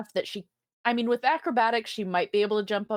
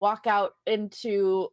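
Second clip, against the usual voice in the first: ordinary delivery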